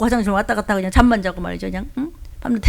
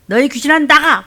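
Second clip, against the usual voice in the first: commanding; 5 semitones higher, 5 dB louder than usual. Retold or imitated. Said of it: "제가".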